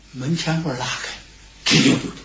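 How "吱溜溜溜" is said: rolling creak of a gate; imitated door creak. Storyteller as the old gate swings open, imitated creak. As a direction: make the sound of a gate sliding open.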